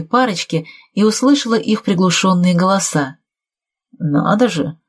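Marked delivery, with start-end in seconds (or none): 4.0-4.8 touched. A narrator's reading. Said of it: "говорил Герман растроганным, взволнованным голосом".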